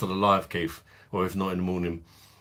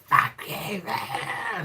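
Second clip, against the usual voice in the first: higher, snapped imitation of an angry retort; hammed-up angry comeback thrown at the lads; mock angry retort; 12 semitones higher, much slower than usual. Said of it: "And she's like".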